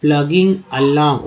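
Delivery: very slow, stretched syllables; slow reading demo. Shown as a demonstration. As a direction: spell it out in sound slowly. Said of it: "ओएनजी को हम बोलते हैं".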